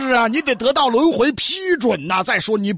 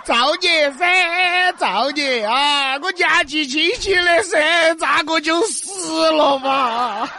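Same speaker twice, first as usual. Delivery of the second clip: wailing; 4 semitones higher, slower than usual. Acted. Ghost wails her fate.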